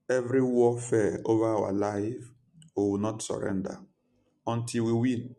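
rally the congregation; roaring rallying speech. Acted. Rallying declaration in prayer.

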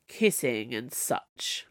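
low, slow bored sigh. Acted. Snow Queen dismissing the heroes, bored sigh. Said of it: "she sighed".

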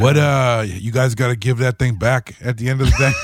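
Chicago gangster voice; old-time gangster. Retold or imitated. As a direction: talk like a Chicago mobster. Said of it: "They're very Chicago, Chicago-y gangster voice".

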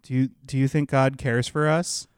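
mildly sheepish doorstep question, halting and low. Retold or imitated. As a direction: imitate a hesitant young canvasser, slowly feeling out the words. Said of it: "asking all sheepishly".

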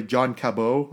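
"Cabot" with a silent t; John Cabot, the surname ending in an oh; French pronunciation. Shown as a demonstration. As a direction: say Cabot as ka-BOH. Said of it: "I'm gonna pronounce it this way".

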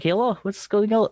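put-on high Russian-accented greeting. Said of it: "talk to Ragnar in your Russian voice".

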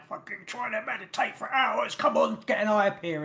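high, mock-exasperated jab at him; mocking impatience. Teasing her partner about meditating, in a mock-impatient high voice. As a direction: tease him like he's useless at it.

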